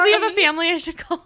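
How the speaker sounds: mock crying. Mock tearful condolence.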